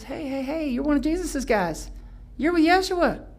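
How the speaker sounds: acted nosy onlooker, rising in volume; accusing passerby. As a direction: spot someone and point them out. Acts stranger calling out Peter.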